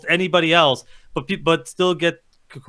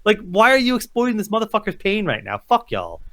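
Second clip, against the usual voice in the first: retold outrage; 5 semitones higher than usual. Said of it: "I'm like".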